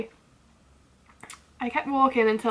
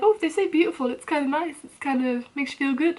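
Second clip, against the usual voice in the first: mocking others; 3 semitones higher than usual. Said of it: "A lot of people are like".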